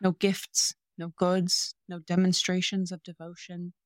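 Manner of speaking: a touch of tender earnest recitation; reciting love declaration. Retold or imitated. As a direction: read the confession as if meaning it. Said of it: "and I quote".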